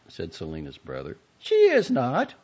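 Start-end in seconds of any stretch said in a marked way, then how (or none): 1.4-2.4 much higher, louder, stress on is; Jenny escalating, high and loud; heated denial. A narrator's reading. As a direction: shout it back, rising. Quarrel escalates.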